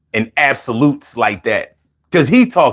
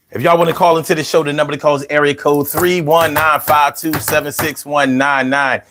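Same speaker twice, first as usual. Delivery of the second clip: hype call-in promo. Acted. Radio host hyping call-in number.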